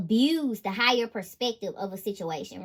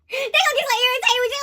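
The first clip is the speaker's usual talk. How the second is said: high, fast, laughing repeat; 11 semitones higher, 7 dB louder, faster than usual. Real, not acted. Reader repeats the line to viewers, laughing. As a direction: laugh it out quickly.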